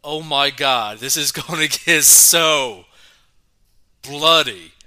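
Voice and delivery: loud, laughing disbelief; shocked outburst. Real, not acted. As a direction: blurt it out in shock. Shocked reaction to the news.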